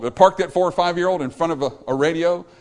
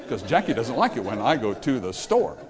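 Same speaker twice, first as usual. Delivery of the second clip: laughing; 3 semitones lower than usual. Real, not acted. Laughs repeating the demo line.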